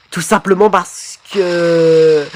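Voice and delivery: slow robot drone, stretched at the end; robotic voice. Acted. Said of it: "je fais plus ma voix de robot". (voix de robot traînante)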